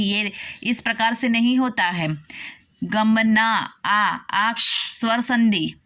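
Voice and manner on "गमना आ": slow, stretched "गमना आ" with a long held आ; drawn-out sandhi. Shown as a demonstration. Teacher to students, showing the sandhi, stretched slowly. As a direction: pull the vowel आ apart from गमना, very slowly. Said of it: "मैं उच्चारण कर रही हूँ".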